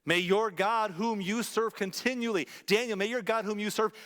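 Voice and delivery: a touch of the anguished king speaking to Daniel; hint of a sorrowful king; king's parting words. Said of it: "Then the king said".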